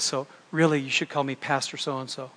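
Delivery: softly imitating a smug confidential whisper; mock whisper. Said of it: "he whispered in my ear".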